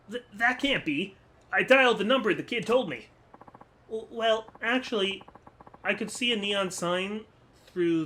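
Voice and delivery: sheepish kid owning up, lightly voiced; lightly voiced young boy. Boy explains his trick.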